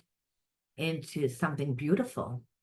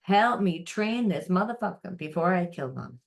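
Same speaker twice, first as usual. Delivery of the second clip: louder, higher call to the universe; 4 semitones higher, 3 dB louder than usual. Retold or imitated. Frustrated person calls on the universe, loud. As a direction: yell up at the universe, fed up.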